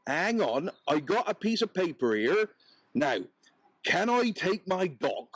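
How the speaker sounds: a puzzled peddler, lightly voiced. Peddler fumbles for paper.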